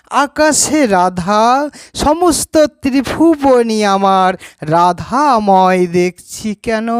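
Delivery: measured, lilting recital with lifted phrase endings; devotional recitation. Acted. Devotee telling how Radha is on every side, lilting devotional recitation. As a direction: let each phrase hang before the next. Recites the verse's rendering in Bengali.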